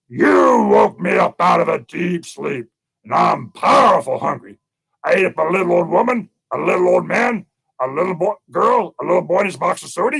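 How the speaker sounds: lightly played bear, emphatic and unhurried; hungry bear. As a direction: draw out the words like a menacing bear. Hungry bear threatens squirrel.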